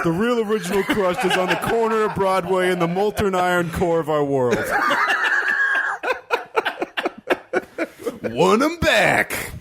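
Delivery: cracking up mid-line; laughing through the joke. Acted. Comedian laughing at own New York joke. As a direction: break into laughter as you finish.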